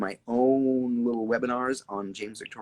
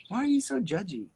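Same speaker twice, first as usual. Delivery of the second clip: mock scolding, a bit louder; 12 semitones higher, 3 dB louder than usual.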